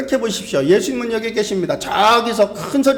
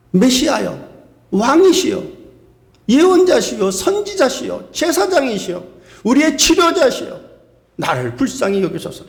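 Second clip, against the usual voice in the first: persistent pleading. Acted. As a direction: lightly voice a woman who keeps calling, title after title. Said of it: "이 여인은 멈추지 않습니다". (멈추지 않고 부르짖는 여인 흉내)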